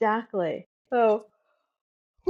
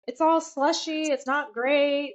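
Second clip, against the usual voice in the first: higher, slow disappointed whine; lightly mimicked sulky complaint; mock whine; 5 semitones higher, slower than usual. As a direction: drag it out like a let-down teenager. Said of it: "And he's like".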